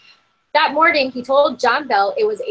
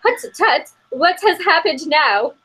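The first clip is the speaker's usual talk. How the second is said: lightly put-on British old lady, higher pitch; hint of a stern British grandmother scolding; pretend British accent; 5 semitones higher than usual. Dutch step-grandmother scolding the slaves, lightly mock British accent. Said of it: "I'm just gonna pretend".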